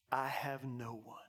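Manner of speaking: low, understated admission; subdued confession. Retold or imitated. Paralytic of thirty-eight years telling Jesus, subdued confession.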